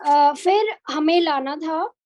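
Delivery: choppy, glitchy call audio; glitchy robotic call. Real, not acted. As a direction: voice breaking up on a bad call. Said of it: "ma'am, आपकी आवाज अटक रही है ma'am".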